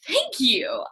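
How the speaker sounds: high, breathy-free delighted oh; flattered surprise. Retold or imitated. Flattered prospect thanking the seller, high and surprised. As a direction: sound touched and caught off guard.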